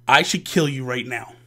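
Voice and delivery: low, measured menace; understated anger, held down in the throat; restrained threat. Acted. Angry dad threatens in car.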